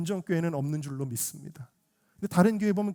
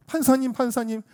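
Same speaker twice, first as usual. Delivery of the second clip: high-pitched plea to a judge; acted parental entreaty; parent crying out; 7 semitones higher than usual. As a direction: beg as a desperate parent would. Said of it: "그 부모가 외치는 거예요".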